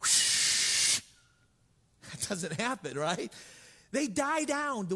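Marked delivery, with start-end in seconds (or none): 0.0-1.0 wind whoosh sound. Shown as a demonstration. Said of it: "They don't go, whoosh".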